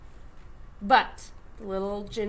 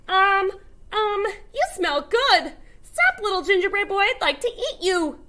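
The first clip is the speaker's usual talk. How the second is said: hungry cow; 7 semitones higher, 4 dB louder than usual. A narrator's reading. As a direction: savour the smell as the cow. Cow voiced in story.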